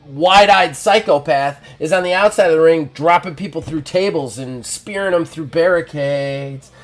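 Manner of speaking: wrestler promo. Acted. Wrestler keeps cutting the promo.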